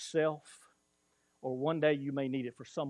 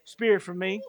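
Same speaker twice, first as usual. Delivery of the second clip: crying out; 4 semitones higher than usual. Retold or imitated. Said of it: "you're just crying out".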